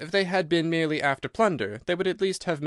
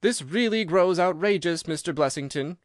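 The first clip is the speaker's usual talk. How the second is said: cried out; 4 semitones higher than usual. Acted. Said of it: "cried Doctor Trevelyan".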